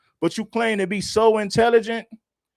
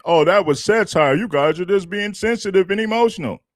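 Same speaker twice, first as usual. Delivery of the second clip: mocking her excuse; 3 dB louder than usual. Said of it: "she tried to say she was playing".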